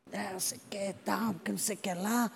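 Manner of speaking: very soft retold mumbling; mumbled brush-off. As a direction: mumble excuses far under your voice. Acting commander's evasive mumbled reply. (resmungo baixinho, imitando o comandante)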